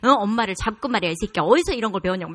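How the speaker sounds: loud mock tirade; retold furious yelling. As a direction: act out a humiliated mother screaming at her son. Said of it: "그래갖고 막 악을 썼어요".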